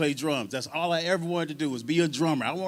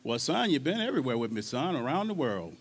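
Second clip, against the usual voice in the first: lower, softer, quietly reproachful mentor; B B King; 3 semitones lower, 7 dB quieter than usual. Retold or imitated. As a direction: speak low and hushed, like a patient elder. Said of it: "He said".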